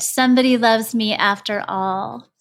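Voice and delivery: touched, with a mild sniffle on "Somebody loves me after all"; sniffling. Acted. Mr Hatch facing his friends, a touch tearful and glad. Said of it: "I do believe he sniffed".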